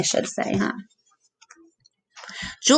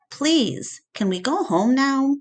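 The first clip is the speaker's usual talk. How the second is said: tired plea; 7 semitones higher than usual. A narrator's reading. George begging to leave.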